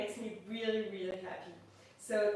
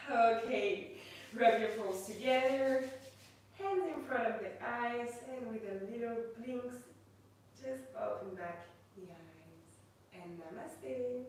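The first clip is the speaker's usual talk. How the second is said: guided meditation. Acted. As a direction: ease the class gently into stillness. Leads a yoga meditation.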